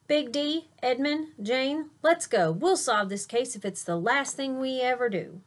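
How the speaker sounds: high, loud rallying of the gang; rallying call. Acted. Tyrone calling his friends to solve the case, eager. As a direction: fire up the team for the mission.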